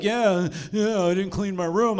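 mock tearful kid; sniffling. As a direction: lightly imitate a whimpering boy. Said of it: "he comes in all sniffling".

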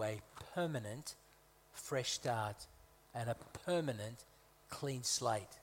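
"permanent" set off with a short pause after it; weight on "permanent", measured phrasing; stress on permanent. Real, not acted. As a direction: lean deliberately on "permanent" each time. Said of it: "Emphasis on the permanent".

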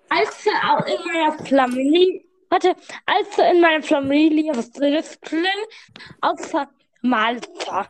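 playful lisp on the s sounds; lisped joke telling. Acted. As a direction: tell the joke with a put-on lisp. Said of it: "alle in unserer Familie lispeln".

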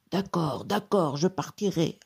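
mildly frightened genie; understated fearful surrender; trembling voice. A narrator's reading. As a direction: give in with a touch of tremble. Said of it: "d'une voix tremblante".

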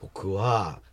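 low, very soft mumbled start; small voice. Real, not acted. Comedian timidly starting his answer on radio, small voice. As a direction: answer too softly to be heard. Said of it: "声小さいな".

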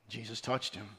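very soft, low, "touched" given the weight; stress on touched. Shown as a demonstration. Preacher on a man long untouched, hushed stress on "touched". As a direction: let "touched" land in a low hush. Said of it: "I want to emphasize the word touch".

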